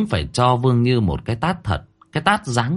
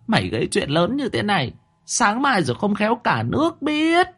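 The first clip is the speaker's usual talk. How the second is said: much higher, seething rebuke; through gritted teeth; 12 semitones higher than usual. A narrator's reading. Mother seething at her daughter's trouble. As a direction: grind each word out in rage. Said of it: "nghiến răng nghiến lợi".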